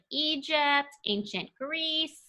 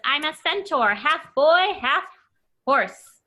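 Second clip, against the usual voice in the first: proud centaur line; 4 semitones higher, 5 dB louder than usual. Acted. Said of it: "It says".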